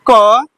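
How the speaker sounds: "क" said alone as a full syllable; letter-sound demo. Shown as a demonstration. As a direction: sound out "क" for learners. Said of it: "क्या पढ़ेंगे?".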